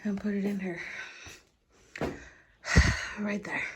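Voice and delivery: whisper. Real, not acted. Moving a mattress, breathless.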